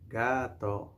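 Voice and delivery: "Gato" gently drawn out; say-along model. Shown as a demonstration. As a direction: stretch both syllables of "Gato" for repeating. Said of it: "You can say it".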